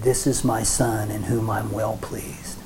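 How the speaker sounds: a touch of God speaking, low and soft; lightly voiced Father. The Father speaks at Yeshua's baptism, lightly voiced, low and soft. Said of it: "he spoke down and he said".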